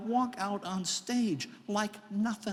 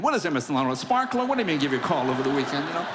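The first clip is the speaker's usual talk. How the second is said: mocking; 3 semitones lower, 5 dB louder, faster than usual. Mocking himself for the phone promise.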